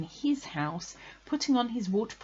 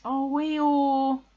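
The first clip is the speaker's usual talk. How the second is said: high, loud sympathetic cry; sorry; 7 semitones higher, 7 dB louder than usual. A narrator's reading. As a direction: call out with acted pity. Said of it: "feeling very sorry already".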